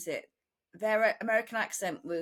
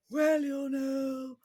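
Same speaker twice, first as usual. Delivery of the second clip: very slow, high, drawn-out politician impression; Margaret Thatcher; 5 semitones higher, much slower than usual. Recalling a childhood party piece for laughs, Thatcher impression. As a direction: stretch each word grandly, pitched up. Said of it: "I used to do impressions of Margaret Thatcher".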